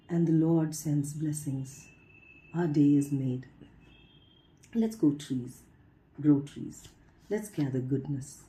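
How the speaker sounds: measured poem reading with lilting, falling lines; poetry recitation. Acted. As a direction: recite line by line, lifting the openings and pausing between. Reads a translated poem aloud.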